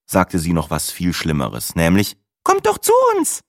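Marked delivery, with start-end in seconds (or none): 2.4-3.4 far higher, chirpy TV weather voice; chirpy weather presenter. A narrator's reading. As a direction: chirp it like an overcheerful forecaster. Weather lady invites them over.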